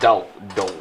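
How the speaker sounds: low attempt at southern "dog"; imitated drawled "dog". Host practising the neighbor's word, drawled "dog". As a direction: try "dog" low with a long rounded vowel. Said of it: "No, it's dog".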